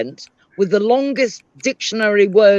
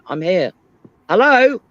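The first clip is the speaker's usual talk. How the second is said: grand reveal. Retold or imitated. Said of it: "And I went".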